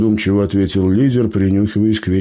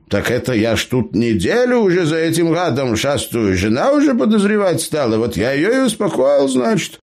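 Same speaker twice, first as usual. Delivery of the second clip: put-on high-pitched cheeky old gnome; pitched-up gnome, boasting to the bandits; 9 semitones higher than usual. A narrator's reading. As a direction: play the crafty gnome, pitched well up. Gnome Eber speaks.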